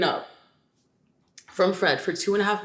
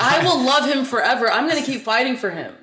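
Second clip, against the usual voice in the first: raised, emphatic mock vow of love; retold lovesick insistence, pushed louder; mock devoted declaration; 4 semitones higher, 5 dB louder than usual. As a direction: declare it passionately, imitating a devoted ex. Acting the ex's declaration of love.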